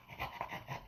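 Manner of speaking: quick, soft unvoiced dog pants; imitated excited dog panting. Dog greets owner coming home, imitated excited panting. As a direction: pant like an eager dog.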